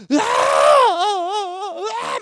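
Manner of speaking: high, loud mock sob of a crying child; imitated child wail. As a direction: wail like a frightened adopted boy. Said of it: "막 울면서".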